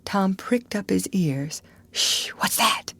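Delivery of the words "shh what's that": hushed alarmed whisper. Acted. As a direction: hiss it, straining to hear. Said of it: "he whispered".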